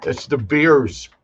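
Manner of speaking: slow, drawn-out Chicago vowels; Chicago accent. Retold or imitated. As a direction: say "beers" the Chicago way. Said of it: "weird Chicago accent".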